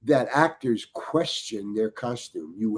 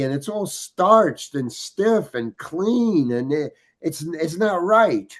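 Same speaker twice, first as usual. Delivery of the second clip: pleading my case; 5 semitones higher than usual. Retold or imitated. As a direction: argue your case earnestly to the director. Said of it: "I'm almost pleading my case to him".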